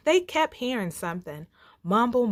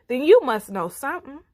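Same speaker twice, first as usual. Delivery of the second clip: demanding lion; 6 semitones higher, 8 dB louder, faster than usual. Acted. Lion pressing the bear.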